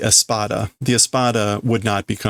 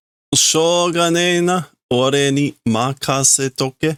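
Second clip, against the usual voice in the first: Renji taking charge; 3 semitones higher than usual. Acted. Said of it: "Renji is saying".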